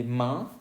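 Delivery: "main" with nasal vowel, silent N; French pronunciation. Shown as a demonstration. Teacher giving French for mano, nasal "main". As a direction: say "main" as nasal "man", N unsounded.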